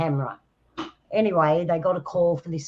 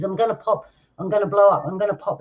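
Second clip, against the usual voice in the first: mild mock panic, pitch a little raised; imitated panic; 3 semitones higher, 3 dB louder than usual. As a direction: retell a panicking man insisting on his fate. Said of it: "he's panicking".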